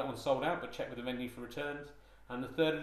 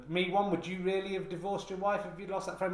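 higher, louder mock interviewer; 6 semitones higher, 4 dB louder than usual. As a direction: put on a different voice for the question. Voicing interviewer character.

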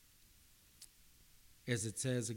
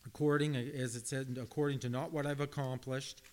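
emphatic preaching; 2 semitones higher, 5 dB louder than usual. Real, not acted. Preacher builds to emphatic point.

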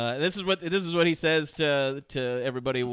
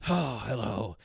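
witch lady voice; 3 dB louder than usual. Retold or imitated. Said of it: "comes up to her and goes".

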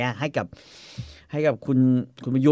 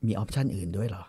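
low, hushed, soft question; quiet, discreet asking; soft coy voice; 5 semitones lower, 7 dB quieter than usual. Acted. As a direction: ask it softly, feeling them out. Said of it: "ทำเสียงนุ่มๆ".

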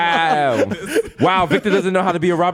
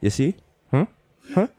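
lower, mocking Jamaican mother; 5 semitones lower than usual. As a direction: tease him low in a Jamaican lilt. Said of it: "She's like".

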